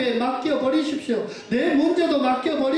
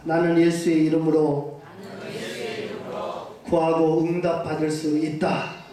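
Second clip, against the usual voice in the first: call to repeat; 6 semitones lower than usual. Shown as a demonstration. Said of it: "한번 따라해 보겠습니까".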